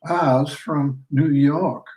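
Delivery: put-on slow Southern field-hand accent, lightly done; Southern chattel accent. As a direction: drawl it out in a Southern slave dialect, slow. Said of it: "mimicking the accent of a Southern chattel".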